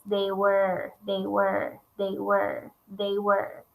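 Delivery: "they were" repeated in a sing-song rhythm; stress on the repeated phrase. Shown as a demonstration. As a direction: tap out "they were" like a beat. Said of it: "You can hear that repeating phrase".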